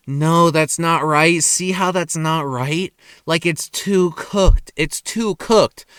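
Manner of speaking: slow, drawn-out complaint; picky customer. Retold or imitated. Customer rejecting a patty to the cook, slow and picky. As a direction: imitate a fussy customer, stretching the words.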